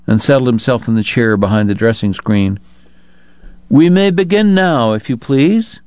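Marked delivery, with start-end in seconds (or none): 3.7-5.8 higher, restrained call; calling out quietly. A narrator's reading. Priest inviting the first penitent from behind the screen, quiet call. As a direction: call out gently without raising the volume. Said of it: "he called out quietly".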